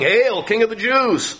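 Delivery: high, sneering mock salute to a captive king; mocking soldiers. Preacher voicing the soldiers mocking Jesus, high sneering hail. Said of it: "They made fun of him".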